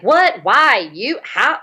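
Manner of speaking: rapid, high, disbelieving questions; mock shocked disbelief; incredulous questions. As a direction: fire off each question in disbelief. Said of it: "he wasn't like".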